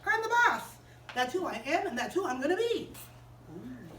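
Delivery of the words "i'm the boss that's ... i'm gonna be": lightly voiced spoiled child, boss peak; a hint of a bratty kid; bossy little girl. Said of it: "Sally just said".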